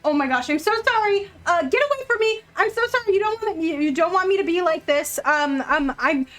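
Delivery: high, hurried, flustered apology; nervous. Acted. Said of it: "he looks nervous and he goes".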